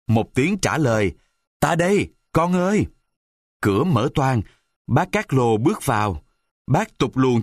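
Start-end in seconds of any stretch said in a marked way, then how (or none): 1.6-2.9 calling back. Acted. Carlo answers his son's call.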